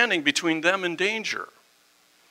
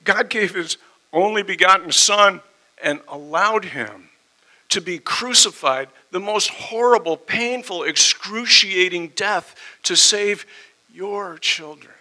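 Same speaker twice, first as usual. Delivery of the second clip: emotional; 4 semitones higher, 5 dB louder than usual. Real, not acted. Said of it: "pardon me for getting emotional".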